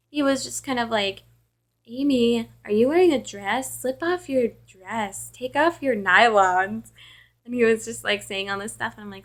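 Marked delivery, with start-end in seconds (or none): 1.9-6.9 creepy caller imitation.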